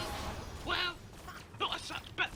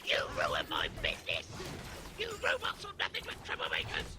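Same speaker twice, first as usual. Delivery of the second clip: angry shout. Acted. Angry caller complains.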